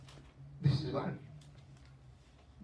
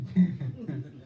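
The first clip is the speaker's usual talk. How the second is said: a short braying laugh, done in fun; imitated donkey laugh; 3 semitones lower than usual. Preacher mimics a donkey laughing to the devotees, mock bray. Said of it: "this is his laughing".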